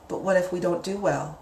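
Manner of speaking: softly planted doubt, gently said; soft and nice, as a gentle suggestion; quiet, sweetly calm murmur. Acted. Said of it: "sweet, calm voice".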